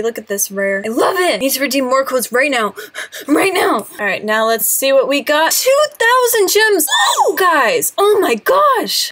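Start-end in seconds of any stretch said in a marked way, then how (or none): 2.8-3.9 sharp gasp then a higher, eager cry; gasp, then demand it now. Real, not acted. Vlogger gasping, eager to redeem more codes. 5.5-9.1 ecstatic shout. Real, not acted. Vlogger shouting to viewers over two thousand gems.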